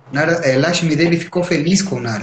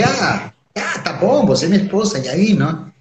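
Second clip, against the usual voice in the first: higher, stammering hesitation; hesitant Shiva; 4 semitones higher than usual. Acted. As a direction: stall awkwardly before giving in. Shiva reluctantly agrees. (Shiva hesitando com a esposa, voz mais aguda e gaguejante)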